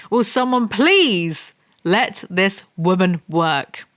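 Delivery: slow, deliberate movie-villain delivery; mock Morpheus line. Quoting a movie line at Anna's coworkers, slow and grave. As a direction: drag it out like a grave film quote. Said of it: "reference to John Wick three".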